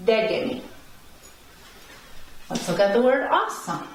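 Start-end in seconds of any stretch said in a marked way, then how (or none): 0.1-0.6 "Degeni" with De stressed; confirming "Degeni", opening syllable strongest; upstress on first E. Shown as a demonstration. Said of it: "go above the first E".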